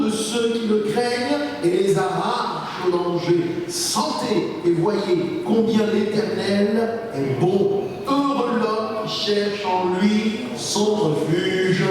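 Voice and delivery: slow, drawn-out Scripture proclamation; solemn psalm reading. Acted. Preacher reading David's psalm aloud to the congregation, slow and solemn. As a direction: proclaim the psalm with long, sustained phrases.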